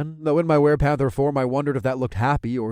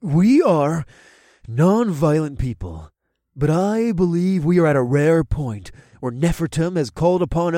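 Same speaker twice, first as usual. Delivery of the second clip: trembling voice; 5 semitones higher, 4 dB louder than usual. A narrator's reading. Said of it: "he began in a trembling voice".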